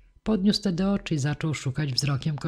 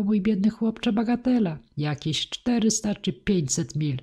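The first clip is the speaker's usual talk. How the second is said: higher, lightly voiced old woman, half pitying; 6 semitones higher than usual. A narrator's reading. Old woman telling the boy the distance, lightly voiced and pitying. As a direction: tell him gently it is nothing.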